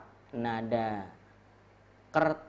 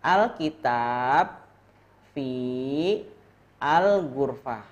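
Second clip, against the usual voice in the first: slow model reading. Shown as a demonstration. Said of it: "Satu ulangi lagi".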